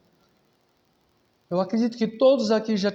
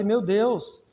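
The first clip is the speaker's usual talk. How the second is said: the teller half-acting his indignation at the father; indignant disbelief; much slower than usual. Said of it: "Eu fiquei indignado".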